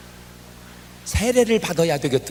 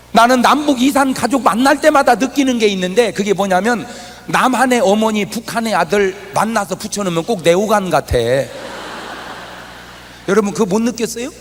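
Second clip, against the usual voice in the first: raised preaching voice; 4 semitones higher, 5 dB louder than usual. Acted. Pastor telling the congregation about reunions, raised voice. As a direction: keep the sermon's lift.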